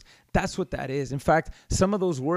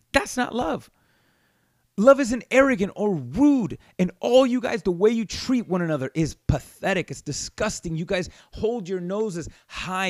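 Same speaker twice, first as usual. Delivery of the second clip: scolding rebuke; 3 semitones higher than usual. Retold or imitated. Preacher rebuking the Corinthians in character.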